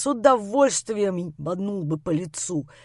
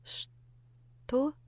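stunned; 5 semitones higher, 6 dB quieter than usual. A narrator's reading. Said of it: "ошарашенно переспросила Лера".

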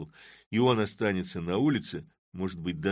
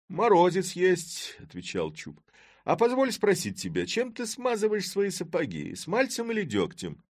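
awkward Chub; 11 semitones higher, 4 dB louder than usual. A narrator's reading. Chub flustered before the mayor, high. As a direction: blurt the wrong question.

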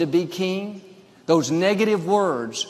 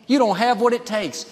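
higher-pitched, discouraging verdict; voice of defeat; 6 semitones higher than usual. Acted. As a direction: act the inner voice that puts someone down. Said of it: "One voice will tell you".

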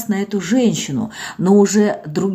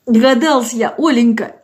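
tearful cry; 4 semitones higher, 3 dB louder than usual. Acted. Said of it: "заплакала опять".

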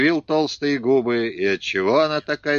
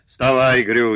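loud angry command; father yelling at his daughter-in-law to get up; barked order; 2 semitones higher, 6 dB louder, slower than usual. Acted. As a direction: shout the order down at her. Father orders her up, kicking.

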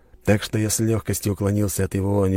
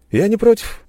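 light, higher, offhand reply; shrugging indifference; 7 dB louder than usual. A narrator's reading. Hero shrugging at the steward, unbothered. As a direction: shrug it off casually. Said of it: "пожал плечами я".

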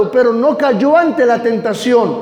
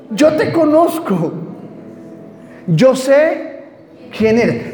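a hint of demon, raised pitch at first; lightly voiced demon; 2 semitones higher, slower than usual. Preacher answering what the demon said, lightly voiced. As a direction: quote the demon with light acting. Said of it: "¿qué dijo el demonio?".

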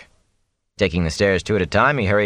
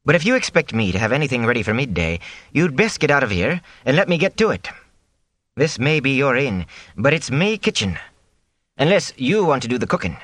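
high, sharp scolding cook voice; a cook scolding the innkeeper, voiced high and sharp; 6 semitones higher than usual. Cook sharply defending her cat to the innkeeper.

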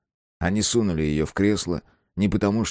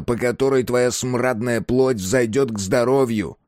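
booming sermon; 5 semitones higher than usual. Acted. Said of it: "голос коменданта делался громче".

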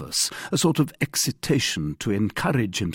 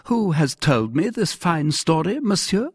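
higher-pitched, affronted royal question; indignant echo; 10 semitones higher, 5 dB louder than usual. A narrator's reading. King throwing captain's question back at him, indignant.

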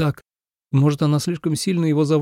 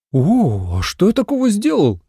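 mock-innocent astonished question, higher; innocent surprise; 8 semitones higher than usual. A narrator's reading. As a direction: play wide-eyed innocence. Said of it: "с неподдельным изумлением спросил". (наигранное изумление, повыше)

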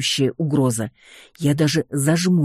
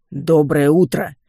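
louder, slow booming «Доброе утро!»; booming greeting; 5 dB louder, slower than usual. Acted. Two skeleton guards greet the heroine at the door, booming. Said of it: "громыхнули оба скелета".

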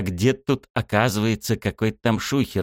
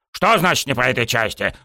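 higher-pitched outraged echo; indignant cry; 5 semitones higher than usual. A narrator's reading. Coach rejected by student, indignant cry. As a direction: throw the phrase back, mildly indignant. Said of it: "возмущённо завопил он".

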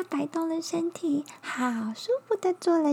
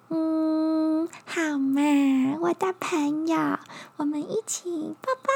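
high, sweet little bug; 3 semitones higher than usual. Acted. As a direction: coax like a cuddly little insect.

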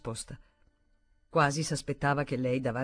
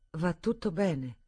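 slow, gentle reassurance; reassuring; 2 semitones higher, slower than usual. Acted. Stephanie calming nervous Daniel, slow and reassuring. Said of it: "per rassicurarlo".

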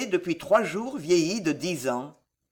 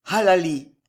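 louder, falling growl on one word; mildly growled echo; 6 dB louder than usual. A narrator's reading. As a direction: growl it out with force.

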